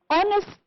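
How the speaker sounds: honest pitched high, HON stressed; high listing honest, stressed at the front; stress on first syllable. Shown as a demonstration. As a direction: punch the start of honest high. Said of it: "first syllable".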